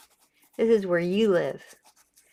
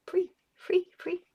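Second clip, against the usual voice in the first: gleeful cry; 11 semitones higher, 4 dB quieter than usual. Real, not acted. Giddy cry of freedom.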